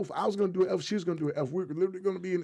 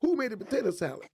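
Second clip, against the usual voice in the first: lightly acted suspicion, leaning on who; suspicious skit guy; 5 semitones higher than usual. Guy at a barbecue asks about the food, suspicious. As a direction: pitch climbs to a higher who. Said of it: "and it's like this".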